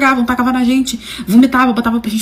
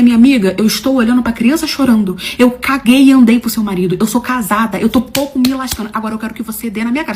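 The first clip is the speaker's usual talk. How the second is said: defiant retort. Retold or imitated. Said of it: "Eu falei".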